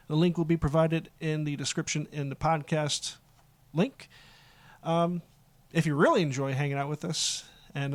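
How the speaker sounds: lightly put-on announcer read. Host reading the show's social media plugs, light announcer voice. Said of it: "In my announcer voice".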